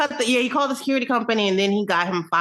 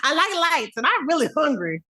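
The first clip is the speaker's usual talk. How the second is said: playful whiny voice through laughter; laughing mock Will; 2 semitones higher than usual. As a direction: giggle through his complaints.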